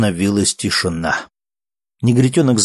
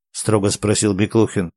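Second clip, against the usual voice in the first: ordinary delivery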